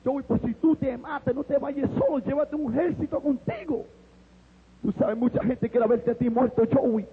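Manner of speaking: a hint of a dark voice urging him on; tempting inner voice. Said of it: "Oí una voz que me dijo".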